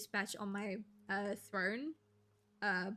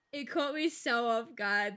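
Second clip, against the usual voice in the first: laughing; 4 dB louder than usual. Real, not acted. Still laughing at chat comment.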